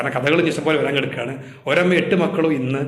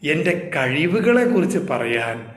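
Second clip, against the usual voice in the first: slow repeat; slower than usual. Shown as a demonstration. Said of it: "മറക്കരുത്".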